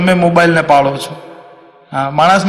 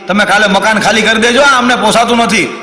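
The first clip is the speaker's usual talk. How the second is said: higher-pitched mock angry outburst; fed-up complaint; 5 semitones higher than usual. Neighbours tell couple to vacate, acted angry complaint. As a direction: build higher towards a final refusal.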